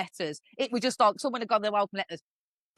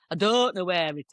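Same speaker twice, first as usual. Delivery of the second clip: a touch of dopey northern English; ditzy northern English; 3 semitones lower than usual. Retold or imitated. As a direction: lightly imitate a ditzy northern English girl. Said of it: "really ditzy anyway and really northern".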